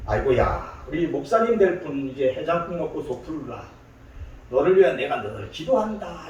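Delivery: lightly imitated Gyeongsang mother; Gyeongsang accent. Mother serves hangover soup to her son, light Gyeongsang accent. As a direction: voice a fussing mother with a Gyeongsang lilt. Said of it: "이게 경상도 사람이거든요".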